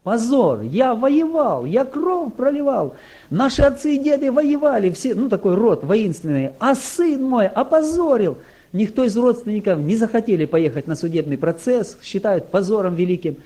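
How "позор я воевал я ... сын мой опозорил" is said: exploding father. Retold or imitated. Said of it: "он взорвался".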